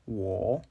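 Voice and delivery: 我 lowering, then rising; third tone. Shown as a demonstration. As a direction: dip 我 down and lift it at the end. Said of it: "it's lowering and rising".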